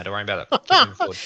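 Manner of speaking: laughing it off, voice jumping up. Real, not acted. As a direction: laugh through the last words. Teasing advice, breaking into laughter.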